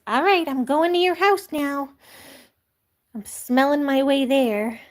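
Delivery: lightly voiced kitten; the cat Lucky heading to your house. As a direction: set off like a cheeky cat. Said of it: "Lucky says".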